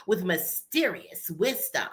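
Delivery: low, slow and weighty; slow, low grand intro; slow deliberate delivery. Shown as a demonstration. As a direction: lay it down slowly like a proclamation. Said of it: "it's also how you say it".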